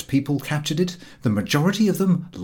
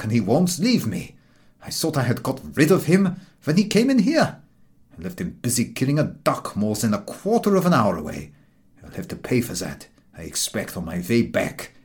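a hint of an exasperated man, rushing at first; fed-up traveller complaining about a dog; lightly voiced weary stranger. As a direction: grumble about the dog that won't leave.

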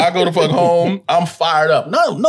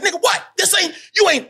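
high-pitched mock defiance; fired up. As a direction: act out still wanting the fight, voice up high. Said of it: "I'm still fired up".

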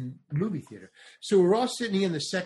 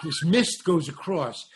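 ordinary delivery

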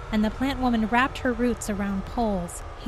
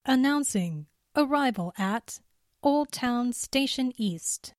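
automated announcer voice; 3 semitones higher than usual. Acted. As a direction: read it like a train's recorded voice. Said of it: "the automated voice said".

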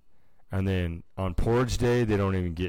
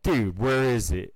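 skeptical challenge; 5 semitones higher, 5 dB louder than usual. Retold or imitated. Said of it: "they're like".

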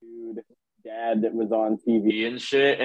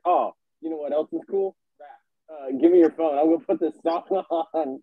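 pushy excited pitch; 6 semitones higher, faster than usual. Retold or imitated. Quoting her pushing rap.

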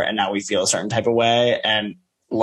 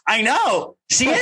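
imitating Garcelle; 11 semitones higher than usual. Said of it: "Garcelle's like".

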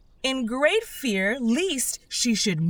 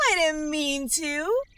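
pleading; 7 semitones higher than usual. A narrator's reading. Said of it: "pleaded poor Alice".

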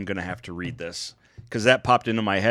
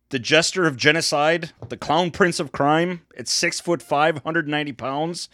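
boxing ring announcer; 3 semitones higher than usual. Acted. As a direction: announce the fighter to the crowd. Introducing fighter like ring announcer.

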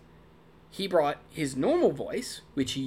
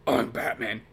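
normal voice as Batman; 5 semitones lower than usual. Retold or imitated. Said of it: "Kevin Conroy came in and said".

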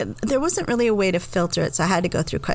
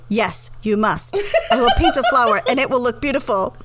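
lightly voiced insistent employee; 3 semitones higher than usual. Nail salon employee pushing a decoration, mildly insistent. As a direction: insist as if lightly playing the manicurist. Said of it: "if I could do an accent".

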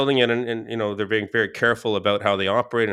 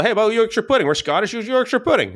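calling out from the living room, pitched high; mock shout to the next room; half-hearted yell across the house; retold yell; 9 semitones higher than usual. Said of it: "And I just yell".

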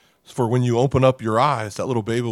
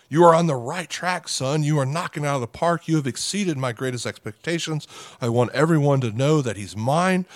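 lightly acted, higher-pitched bragging father; proud father; 4 semitones higher than usual. Heavenly Father bragging on his son, proud and lightly acted. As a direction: gush a little, as a proud dad would. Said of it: "he's like".

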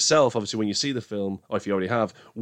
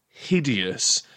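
hideous leaned on, drawn out with a falling tune; stressed word. Shown as a demonstration. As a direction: give hideous its full weight, slowly falling. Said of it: "and I stress this word".

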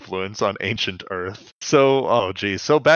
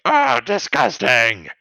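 disgusted Terrorsaur; 10 semitones higher, slower than usual. Retold or imitated. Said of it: "and Terrorsaur's like".

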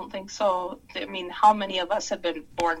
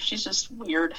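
whisper. Acted. Confiding aside about robot.

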